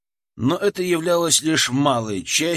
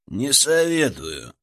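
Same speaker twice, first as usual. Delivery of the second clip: wry; slower than usual. Acted. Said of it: "хмыкнул Рыжий".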